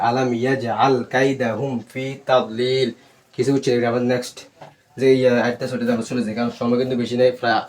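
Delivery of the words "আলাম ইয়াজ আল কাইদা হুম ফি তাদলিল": slow recitation. Shown as a demonstration. Teacher recites the full verse.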